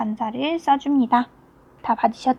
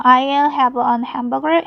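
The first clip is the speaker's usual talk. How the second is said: very slow, each word separated; slow reading aloud; much slower than usual. Shown as a demonstration. Teacher reading Mark's order slowly to the class. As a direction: read it out slowly like a textbook line. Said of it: "했죠".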